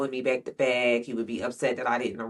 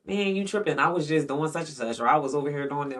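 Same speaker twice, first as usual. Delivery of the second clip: imitated own denial; 3 semitones higher, faster than usual.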